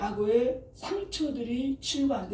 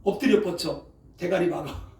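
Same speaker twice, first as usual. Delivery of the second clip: army drill command; 3 semitones lower, 5 dB louder than usual. Retold or imitated. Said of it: "꼭 군대식으로 우리를 혼냈어".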